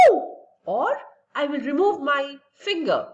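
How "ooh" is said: short demonstrated "ooh" cry; mock pained scream. Shown as a demonstration. Teacher showing pupils a reflex to something very hot, mock scream. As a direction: act out a quick yelp at touching heat. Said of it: "I will scream".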